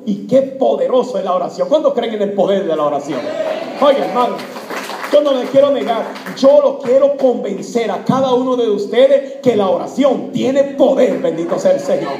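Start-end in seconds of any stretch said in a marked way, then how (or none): 3.8-12.1 louder, insistent preacher's appeal; emphatic pulpit exhortation; fervent preaching. Real, not acted. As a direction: press the congregation with conviction. Preacher urges the congregation.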